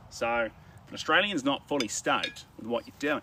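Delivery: exaggerated Aussie accent, a touch nasal; Australian accent. Shown as a demonstration. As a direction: talk forward in the palate like an Australian. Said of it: "they kinda talk like this".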